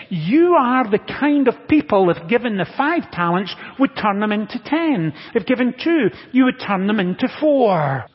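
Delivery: rally the congregation with building conviction; rousing preaching. Real, not acted. Preacher telling the congregation God is at work, rousing preaching.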